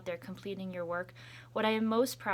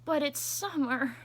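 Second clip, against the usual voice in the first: calling out; 7 semitones higher, 6 dB louder than usual. Acted. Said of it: "her brother called".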